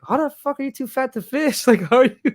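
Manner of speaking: high indignant mock voice; incredulous Artie. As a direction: raise the voice, baffled and offended. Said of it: "And he was like".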